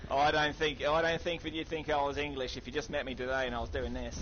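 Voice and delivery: put-on Aussie accent with English traces; Australian accent. Shown as a demonstration. Gamer defending his accent to a sceptical teammate, Australian accent. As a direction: insist in an imperfect Australian accent. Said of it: "I sound quite Australian at the moment".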